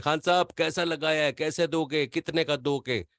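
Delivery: put-on light Pashto-accented bargaining; mock Pathan accent. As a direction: haggle like a Pathan vendor, Pashto-accented Urdu. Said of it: "Pathan बनने की कोशिश".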